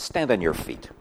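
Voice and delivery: light whisper. Acted. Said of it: "he talks to him through a light whisper".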